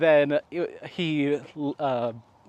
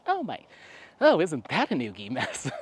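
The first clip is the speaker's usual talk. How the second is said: mom's fussy exclamation. Retold or imitated. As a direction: squeak it like a flustered mom. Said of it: "She's like".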